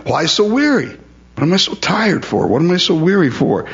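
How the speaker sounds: pitched far up, a put-on whine about being worn out; high whiny complaint. Pastor mimicking himself complaining to God, high and whiny. Quoting his own weary complaint.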